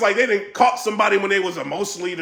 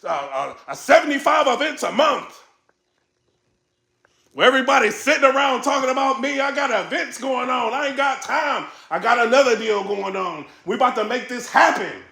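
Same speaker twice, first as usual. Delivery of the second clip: raised, higher mock rant with shouted bursts; Beasley rant; 5 semitones higher than usual. Imitating Beasley ranting about people talking about him, higher and shouting. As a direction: hype it up like he's fed up with the talk. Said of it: "He's like".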